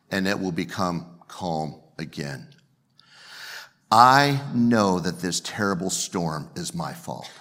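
low, slow reading of Jonah's words; measured, weighty Bible quotation; scripture reading. Acted. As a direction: read the confession out solemnly and deliberately. Reads Jonah's confession.

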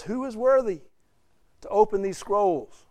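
a hint of a herald's call; angelic proclamation. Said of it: "speaking with a loud voice".

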